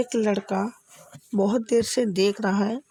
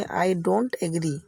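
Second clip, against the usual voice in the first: very slow, each word spelled out; slow teaching demo; 4 semitones lower, much slower than usual. Shown as a demonstration. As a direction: say it slowly for learners to copy. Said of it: "आज से आप बोलेंगे". (धीमे-धीमे, साफ़ उच्चारण में)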